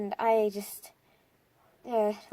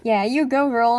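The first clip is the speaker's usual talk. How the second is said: cheering friend; 9 dB louder than usual. Retold or imitated. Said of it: "high-fived me and was like".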